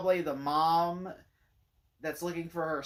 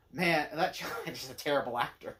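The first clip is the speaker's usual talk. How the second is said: laughing friend; 4 semitones lower than usual. Retold or imitated. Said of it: "and he goes".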